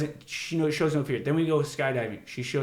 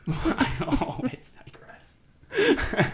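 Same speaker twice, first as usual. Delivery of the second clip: laughing; 14 semitones higher, 4 dB louder, slower than usual. Real, not acted. Laughing self-mockery.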